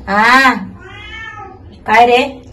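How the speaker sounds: high, loud pet talk. Real, not acted. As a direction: coo at the cat. Talking to the cat.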